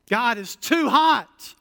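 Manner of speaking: high, slow whining complaint; whiny Israelite. Retold or imitated. Preacher mimicking Israelites moaning to God, whiny. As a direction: whine like a grumbling wanderer. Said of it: "Israelites complaining constantly".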